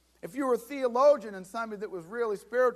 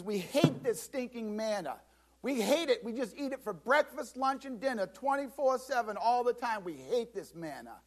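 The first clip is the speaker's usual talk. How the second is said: higher-pitched grumbling crowd, sick of the food; whiny complaining; 3 semitones higher than usual. Acted. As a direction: moan like spoiled people fed up with manna. People grumbling against the manna.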